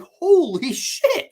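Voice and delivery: high, loud, drawn-out mock shock; stunned disbelief. Viewer reacts to the shocking twist, stunned.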